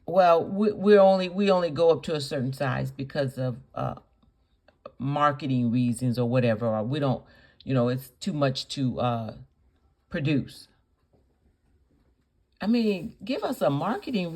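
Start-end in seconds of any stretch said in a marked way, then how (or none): 0.1-10.7 low, hesitant, matter-of-fact excuse; milder suggested explanation. Acted. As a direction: model a tactful company explanation, haltingly. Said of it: "Why didn't you just say".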